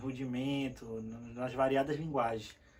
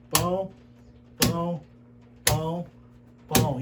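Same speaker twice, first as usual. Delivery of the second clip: "pão" as one short syllable on each beat; steady, spaced-out repetition of "pão"; word per beat; 3 dB louder than usual. Shown as a demonstration. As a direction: say "pão" evenly, once per drum stroke. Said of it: "associar com a quantidade de batida".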